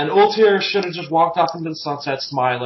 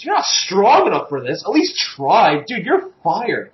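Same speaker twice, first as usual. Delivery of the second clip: higher, swooping pitch of disbelief; mock incredulous; 3 semitones higher than usual. Podcaster scolds the cowardly guards and fires them, mock incredulous. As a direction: play an outraged boss firing someone.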